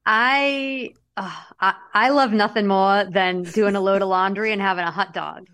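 broad Massachusetts accent, dropped r's. Shown as a demonstration. Host bantering about laundry and hot dogs, Massachusetts accent. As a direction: lay on the hometown Massachusetts accent. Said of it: "I'm gonna read it in my mass".

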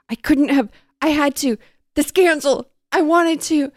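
hammed-up frantic self-defence; desperate pleading. A narrator's reading. Press pleading with the bride in story.

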